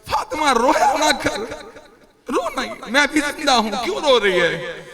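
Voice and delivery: grieving father's plea, voice lifting then falling; tearful plea. Acted. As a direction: beg a daughter through tears not to cry. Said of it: "और रो के कहते हैं".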